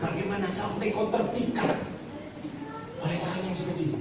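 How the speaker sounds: high, soft disbelieving question; mock astonished pastor; incredulous priest. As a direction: ask it as if you can't believe her.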